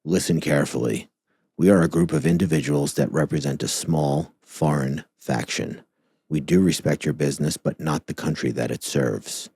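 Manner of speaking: lightly voiced menacing hacker read; a hint of the faceless hacker threat; Anonymous hacker voice. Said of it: "Like Anonymous?".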